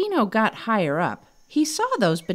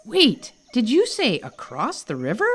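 questioning; 5 semitones higher than usual. Acted. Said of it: "questioned Ernest".

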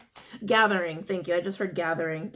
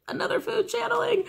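mock exasperated; 14 semitones higher than usual. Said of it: "but I was like".

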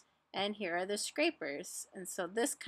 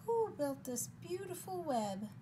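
high, hooting owl question; 8 semitones higher, 4 dB quieter than usual. Acted. Owl asking who built the web, high owl voice. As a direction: start high like a hoot. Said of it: "asked the owl".

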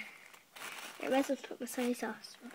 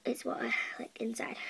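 whisper; 6 dB quieter than usual. Real, not acted. Whispered aside.

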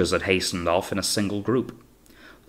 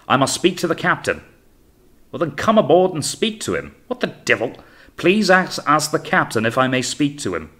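high, raised voices calling back and forth; bellowed conversation; 7 semitones higher, 4 dB louder than usual. A narrator's reading. Two officers argue from longboat to ship, bellowing. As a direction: bellow it between boat and ship. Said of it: "hearing the bellowed conversation".

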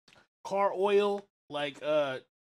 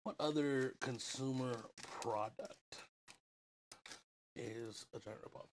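eating while talking; mouth full; 5 semitones lower, 11 dB quieter than usual. Real, not acted. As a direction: talk through a mouthful. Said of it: "I'm just snacking".

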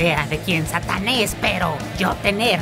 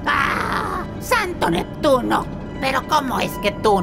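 shocked; 8 semitones higher than usual. Acted. Shocked by captive's story.

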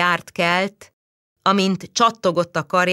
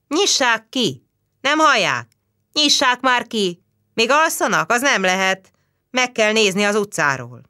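raised voice, higher, louder; calling through the door; 5 semitones higher, 3 dB louder than usual. Acted. Neighbours at the locked door, calling loudly. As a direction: call out to wake the sleepers.

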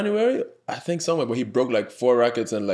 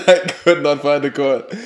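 louder, through real laughter; laughing; 3 semitones higher, 6 dB louder than usual. Real, not acted. Player owning up to wild shots with the pro staff, laughing. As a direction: say it again laughing at yourself. Laughs at own bad tennis story.

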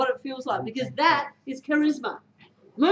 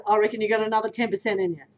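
lower, fast confident push; encouraging push; 5 semitones lower, faster than usual. Shown as a demonstration. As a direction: egg the player on for more. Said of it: "Do you see how I say it".

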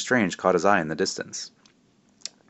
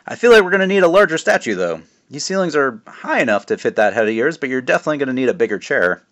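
higher, louder jovial dad voice; teasing dad; 5 semitones higher, 5 dB louder than usual. Acted. Father teasing his son at the memorial, jovial and loud. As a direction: play the proud joking father.

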